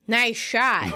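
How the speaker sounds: mildly sarcastic, punchy; sarcastic praise. Retold or imitated. Doug to opponent who just scored, mildly sarcastic. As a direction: imitate dry, pointed sarcasm. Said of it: "Doug sarcastically goes".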